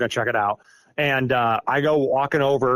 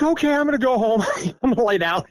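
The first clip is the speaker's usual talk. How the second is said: laughing disbelief; 10 semitones higher than usual. Retold or imitated. Overwhelmed retreating, laughing.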